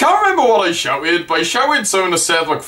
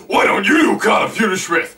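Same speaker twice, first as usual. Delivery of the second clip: retorting reply; 3 semitones higher than usual. Retold or imitated. Seth replying to the heckler, mock retort. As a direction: heckle thrown back, stressing YOU. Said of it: "then he replies to me".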